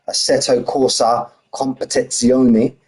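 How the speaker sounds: slow, lightly Italian Assetto Corsa Competizione; Italian accent. Shown as a demonstration. Streamer hams up an Italian game title for chat, mild Italian accent. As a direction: roll the Italian name with a hint of accent. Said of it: "a bit more of an accent there for you".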